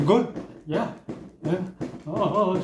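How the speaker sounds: mock factory-worker encouragement, lightly voiced; dutiful partner. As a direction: check in like a supervisor on duty. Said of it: "So it'll go something like this".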